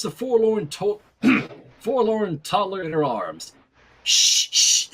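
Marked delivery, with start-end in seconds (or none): 4.0-4.9 put-on whispered hush to a baby; whispered shh to calm a baby; soothing shush. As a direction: shush the crying toddler gently.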